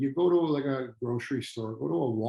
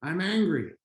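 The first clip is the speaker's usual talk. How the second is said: acted angry declaration, pitched up; angry outburst; 5 semitones higher than usual. Trainer voices stressed customer's easy answer, angry. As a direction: blurt out the anger in a higher voice. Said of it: "how did it come out?".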